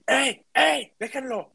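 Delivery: high, loud call from the back; shout from afar. Retold or imitated. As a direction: yell across the room to stop them. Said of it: "se escucha desde el fondo".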